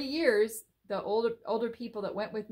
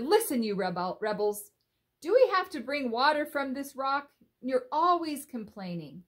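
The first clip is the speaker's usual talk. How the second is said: raised, exasperated scolding, a bit higher; angry Moses; 4 semitones higher, 5 dB louder than usual. Retold or imitated. Moses scolding the complaining people, louder and angry. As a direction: scold the grumbling crowd, fed up. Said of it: "he started kind of shouting at the people, and he was angry".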